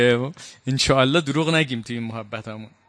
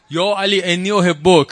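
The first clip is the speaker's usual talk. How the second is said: called out from the back, a little louder and slower; mock call-out; 3 semitones higher, 4 dB louder than usual. Kharijite calling to Ali from the back of the mosque, mock shout. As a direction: stretch it out to reach across the mosque. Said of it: "از ته مجلس هم داد زد".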